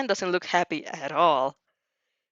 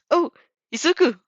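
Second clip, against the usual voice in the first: excited cry; 9 semitones higher, 6 dB louder than usual. A narrator's reading. Dramatic exclamation.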